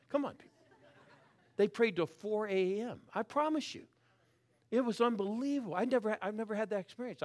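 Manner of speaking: high, laughing amazement; laughing disbelief. Real, not acted. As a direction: marvel at the all-night prayer. Laughing about four-hour prayer.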